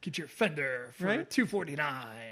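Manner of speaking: put-on radio ad announcer voice. Mimicking the show's new announcer voice: Guitar Center radio ad voice. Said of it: "He actually sounds like a Guitar Center, like, radio guy".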